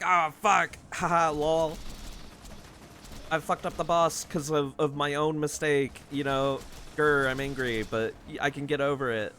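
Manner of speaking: mock fun rage. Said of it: "fun rage".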